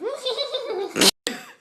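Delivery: high stuttering animal noise; made-up high animal call; guessed giraffe noise. Acted. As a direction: improvise a silly high giraffe cry. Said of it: "What does the giraffe say?".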